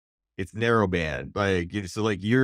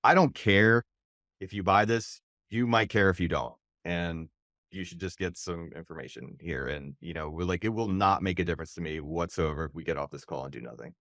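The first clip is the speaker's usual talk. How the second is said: calm confidence; 3 semitones lower, 3 dB quieter than usual. Retold or imitated. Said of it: "I call it calm confidence".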